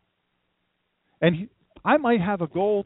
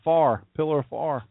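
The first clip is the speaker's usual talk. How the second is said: downstate Delaware accent. Shown as a demonstration. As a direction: flatten "fire" into "far", downstate Delaware style. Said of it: "as we'd say downstate Delaware".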